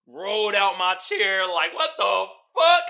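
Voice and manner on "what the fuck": higher and louder, shouted through laughter; laughing shout. Real, not acted. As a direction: yell it while cracking up. Laughing hard recalling scene.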